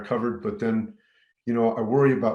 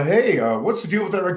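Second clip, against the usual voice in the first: higher, louder lawman challenge; a hint of an annoyed deputy; gruff sheriff; 7 semitones higher, 5 dB louder than usual. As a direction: lightly voice a cop calling him out. Sheriff pulls him over.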